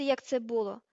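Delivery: falling, aggrieved statement; mildly heated, defensive; earnest protest. Acted. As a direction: end the defence with feeling. Ron defending himself before being interrupted.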